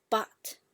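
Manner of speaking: "but" as a fourth tone, falling. Shown as a demonstration. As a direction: say "but" with a firm fall. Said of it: "it's almost the same".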